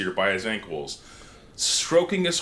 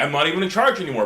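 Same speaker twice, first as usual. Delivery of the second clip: whiny complaint; 4 semitones higher, 3 dB louder, much faster than usual. Retold or imitated.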